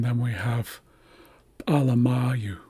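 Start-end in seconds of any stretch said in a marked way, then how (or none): 1.7-2.6 alamayu as pa-la-MA-yu, popped P first; stress on MA. Shown as a demonstration. Teacher adds a suffix for learners, stress stays on MA. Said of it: "the accent stays the same as in alama".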